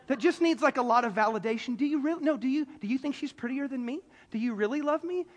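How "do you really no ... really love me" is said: lightly voiced insecure sweetheart; needy partner. Needy partner fishing for validation, mildly pleading. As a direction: plead lightly for validation, tripping over repeats. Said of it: "the super emo needy boyfriend or girlfriend".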